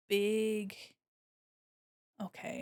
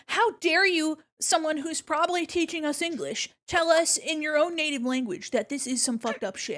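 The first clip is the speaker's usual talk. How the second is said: put-on loud, high indignant children; outraged kids; 6 semitones higher, 5 dB louder than usual. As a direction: kids yelling at their teacher. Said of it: "Yeah, them".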